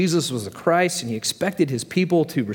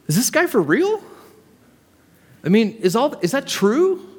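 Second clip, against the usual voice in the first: shocked murmur; 7 semitones higher than usual. Acted. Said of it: "everybody's wondering".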